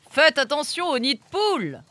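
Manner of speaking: le papa, voix plus haute et attentionnée; father. A narrator's reading. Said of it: "ajouta le papa".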